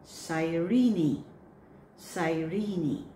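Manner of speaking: Cyrene ending on a clear ee; final e sounded. Shown as a demonstration. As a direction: Cyrene said sy-ree-nee, the last e spoken. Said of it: "don't drop the last E".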